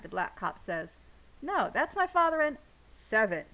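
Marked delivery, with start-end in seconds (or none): 1.4-2.6 loud, high, desperate shout; shouted protest. A narrator's reading. Seven shouting at the cops about his father: loud high. 3.0-3.4 loud sharp call of the name; yelling. A narrator's reading. Daddy yelling from the ground to silence Seven: loud call. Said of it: "Daddy yells".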